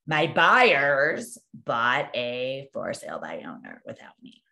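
drawn-out, halting lament fading to almost nothing; retold upset. Agent confessing lost buyers to her manager, retold dejection. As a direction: imitate a dejected agent, slowly confessing the blow. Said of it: "she's crying".

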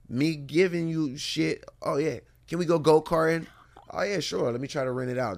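lightly voiced pleading boy; mock kid begging. Mock exchange between son and dad.

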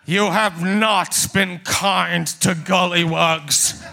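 booming voice. Acted. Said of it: "you hear a booming voice go".

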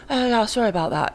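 airy British accent. Shown as a demonstration. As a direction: toss off an airy aristocratic British apology. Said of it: "your accent can be more airy".

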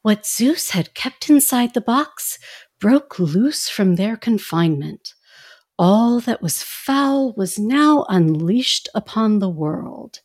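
slow, measured storybook narration; soothing bedtime story. Retold or imitated. Host mimicking the album's intro narrator, soothing bedtime story voice. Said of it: "very bedtime sort of soothing presentation".

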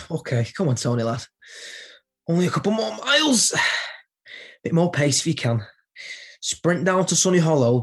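puffing while jogging; breathless runner talking to himself; out of breath. Acted. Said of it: "I was gasping for breath".

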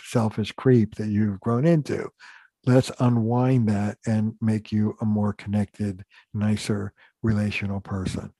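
mock sympathy. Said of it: "I call this".

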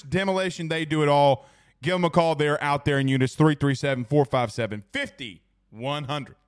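brisk sponsor plug; quick, upbeat sponsor spot; ad read. Acted. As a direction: rattle off the ad like a radio read. Reads sponsor ad.

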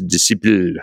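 a hint of a Pink Panther French accent; lightly faked French pronunciation of "disciple". Shown as a demonstration. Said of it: "do my best Pink Panther accent".

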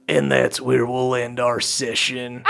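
lightly voiced low old-timer; Old Cobb. Narrator closes the session for folks at home, lightly voiced low. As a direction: sign off low, a touch of old storyteller. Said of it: "our folks at home hear Old Cobb go".

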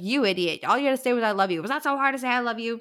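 mock exasperated telling-off, pitch lifting; heated scolding. Podcaster retells the maid scolding Feyre, mildly heated. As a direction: lightly imitate someone worked up and scolding. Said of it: "she was really heated about this".

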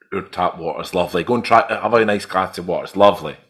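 a hint of a gentle mum; man doing a woman's voice. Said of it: "That was an impression of my mum there".

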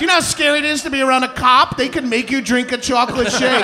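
fast, whiny and sheltered; whiny privileged voice. Pretend. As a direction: play a sheltered complainer. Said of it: "white privilege that I'm like".

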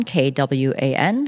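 slow letter-by-letter spelling. Shown as a demonstration. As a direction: spell each letter out clearly. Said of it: "my last name is spelled Kwan".

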